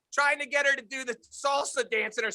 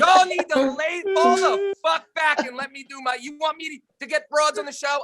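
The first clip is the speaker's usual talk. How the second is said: mock cocky boast; 4 semitones higher than usual. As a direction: puff up like a show-off. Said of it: "It's probably like".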